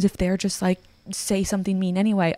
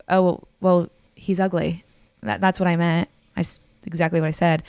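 snide tone. Retold or imitated. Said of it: "She doesn't have to say it in that tone".

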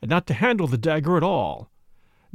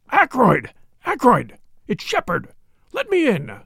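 bawling; 7 semitones higher than usual. A narrator's reading. Doctor bawls through the keyhole at his locked-in friend. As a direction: bawl it through the door. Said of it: "fairly bawled through the keyhole".

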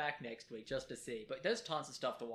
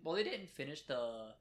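voice breaking. Real, not acted. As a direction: voice cracks mid-sentence. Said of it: "You heard my voice break there".

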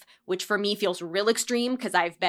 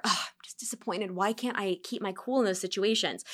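softer, sighing self-reproach; mock inner groan; 7 dB quieter than usual. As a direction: mutter it down to yourself. Voicing inner self-talk.

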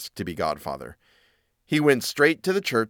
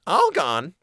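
mildly raised, high mouse question; astonished cry; 5 semitones higher than usual. Acted. Mouse hearing the third name, mildly astonished cry. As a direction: exclaim it high with a touch of disbelief. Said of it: "cried the mouse".

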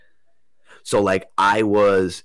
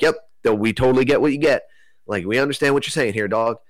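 casual beings voice; 6 semitones higher, faster than usual. Retold or imitated.

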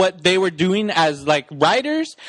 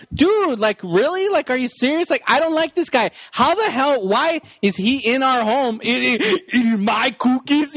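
mild mock exasperation; 3 semitones higher than usual. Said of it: "pissed off at my wife".

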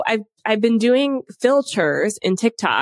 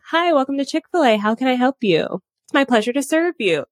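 lightly put-on, higher-pitched presenter voice; customer service voice; 4 semitones higher than usual. Shown as a demonstration. Former Chick-fil-A worker greeting customers, light customer service voice. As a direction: greet like a polite fast-food counter worker, slightly raised. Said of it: "it's, like, sometimes called the customer service voice".

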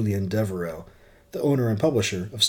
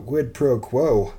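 drawn out slowly; slow emphasis; 4 semitones higher, 5 dB louder, much slower than usual. Real, not acted. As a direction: stretch each word out. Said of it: "talk about qu".

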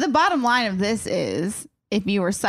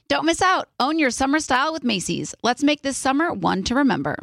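ad read. Acted. Ad read by host.

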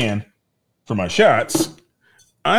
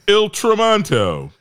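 Italian accent; 8 semitones higher than usual. Shown as a demonstration. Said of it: "I can't do that word in an Italian accent".

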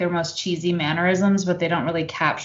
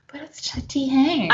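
higher, playful mock gushing over T Hanks; mock fond excuse; 8 semitones higher than usual. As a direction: gush like a forgiving fan. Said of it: "you're just kinda like".

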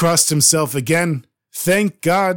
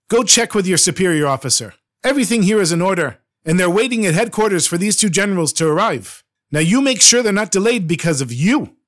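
raised, pushy officer giving orders; confident command; 4 semitones higher than usual. Acted. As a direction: bluff it out with full confidence, pressing the guard. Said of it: "So he said with a great deal of confidence".

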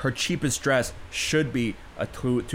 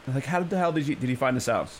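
normal talking voice

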